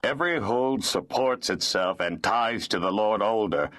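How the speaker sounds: lightly voiced impassive steward. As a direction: state it without feeling. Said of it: "the steward said impassively".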